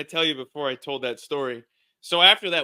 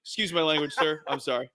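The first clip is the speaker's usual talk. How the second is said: polite apology. Retold or imitated. Driver switches back to polite apology.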